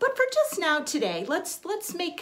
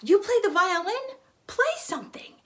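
imitated eager asker, pitched up and louder; eager request; 9 semitones higher, 4 dB louder than usual. Someone urging a violinist to play, mock eager. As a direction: mimic someone keen to hear you play. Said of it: "they say".

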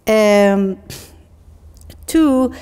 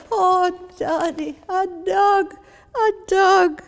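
put-on delighted Glasgow child, high and drawn out; high, slow, overjoyed Glasgow cry; strong Glasgow accent; 11 semitones higher, slower than usual. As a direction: marvel in a high Glaswegian child's voice. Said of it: "that strong Glasgow voice".

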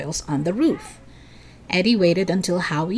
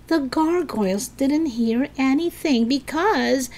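arguing; 6 semitones higher than usual. A narrator's reading. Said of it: "Eddie argued".

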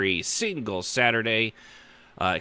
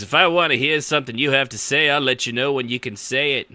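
loud, mock-bossy old-fashioned husband; fifties husband act; 4 semitones higher, 4 dB louder than usual. Host playing fifties husband to his wife, mock authority. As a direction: lay down the law as a joke. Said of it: "jump back to the nineteen fifties".

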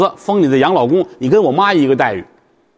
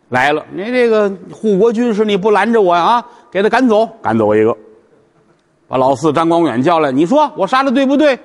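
irate emperor; 3 semitones higher than usual. Acted. Emperor berates advisers.

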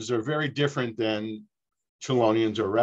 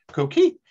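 coqui frog call; 2 semitones higher, 4 dB louder than usual. Shown as a demonstration. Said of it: "I'll just do the quick example".

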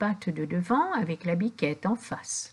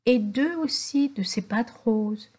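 usual speaking voice

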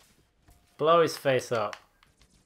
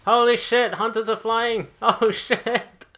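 surprised shout; 5 semitones higher, 4 dB louder than usual. Real, not acted. Sudden surprise in combat.

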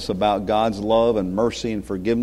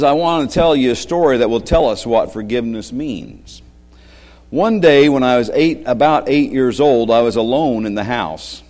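story reading. Acted. Reads story aloud to children.

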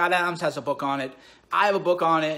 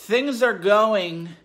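drawn-out boredom; 2 semitones higher, 5 dB louder, much slower than usual. Real, not acted. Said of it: "I'm bored out of my mind".

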